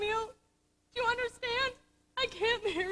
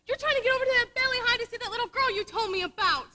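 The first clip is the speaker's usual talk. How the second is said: tearful plea; 3 dB louder than usual. Acted. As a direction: voice catching with tears as she pleads. Pleading with wounded friend.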